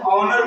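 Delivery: ऑनर starting on the vowel, no H; silent H in ऑनर. Shown as a demonstration. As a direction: drop the H and open ऑनर on O. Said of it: "इससे पहले एच आ गया". (ऑनर में एच का उच्चारण किए बिना)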